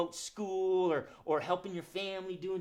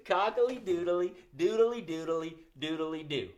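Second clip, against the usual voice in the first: rooster call. Shown as a demonstration. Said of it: "Can you say that with me?".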